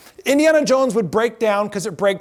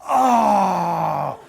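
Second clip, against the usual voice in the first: sad crowd groan. Retold or imitated. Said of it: "all just look at Indiana Jones and go".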